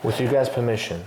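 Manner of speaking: flat, even robot voice. Real, not acted. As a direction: talk like a stiff robot voice. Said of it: "why are you trying to sound like a robot".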